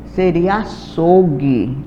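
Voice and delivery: slow and deliberate, leaning on seria; slow teacher emphasis. Shown as a demonstration. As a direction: spell out the answer for the class. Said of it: "Olha como se escreve". (resposta lenta e enfática de professora)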